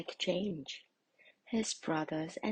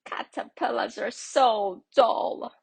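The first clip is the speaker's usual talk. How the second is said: high, loud, snooty dragonfly; a lofty, showy insect voice; bright dragonfly; 4 semitones higher, 12 dB louder than usual. A narrator's reading. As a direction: look down on the dull caterpillar. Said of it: "said a bright dragonfly".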